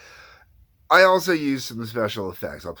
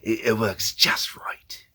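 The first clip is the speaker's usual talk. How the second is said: snotty Loki voice; 3 semitones higher, slower than usual. Shown as a demonstration. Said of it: "pinch the back of your jaws".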